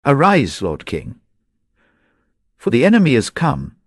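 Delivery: breathless, urgent cry; urgent panting report. A narrator's reading. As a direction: call out the alarm, quick and high. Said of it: "ran in a breathless messenger and cried aloud".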